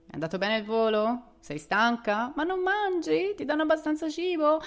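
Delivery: high, loud, anxious mother barrage; doting mum fussing. Retold or imitated. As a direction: smother her with worried questions. Fussing mother voiced in story.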